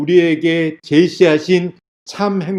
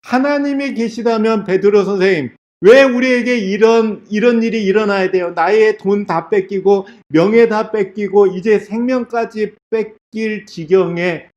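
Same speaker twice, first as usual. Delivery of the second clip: mildly raised, higher-pitched wailing protest; crying out; 5 semitones higher than usual. Acted. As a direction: cry out in protest, without full screaming. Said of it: "어떤 여인이 소리 질러요".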